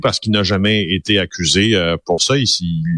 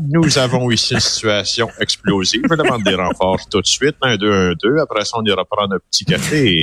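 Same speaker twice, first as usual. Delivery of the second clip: police radio. Retold or imitated. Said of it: "qui appelle à la centrale en disant".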